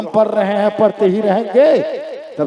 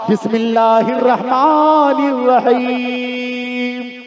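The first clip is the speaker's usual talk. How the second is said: slow, drawn-out recitation; recited aloud; slower than usual. Acted. Bride reciting before reaching into the jar, slow intoned recitation. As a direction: intone it slowly like a prayer. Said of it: "Rita ने जोर से पढ़ा".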